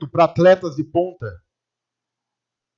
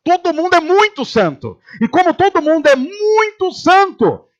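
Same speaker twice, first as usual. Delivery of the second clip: high, drawn-out mock reverence; mock awe at holiness; 8 semitones higher than usual. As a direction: stretch muito santo high in mock awe. Mocking the saintly crowd. (voz alta e arrastada, reverência zombeteira)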